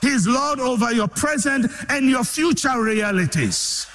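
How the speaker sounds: rising litany of declarations; full-force preaching. Real, not acted. Preacher to Ghanaian Christians, full-force preaching. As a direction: preach it to the crowd.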